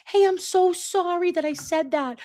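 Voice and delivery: breathy whispered mock apology; fake sorry whisper. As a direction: pretend contrition, all air. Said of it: "I'm not".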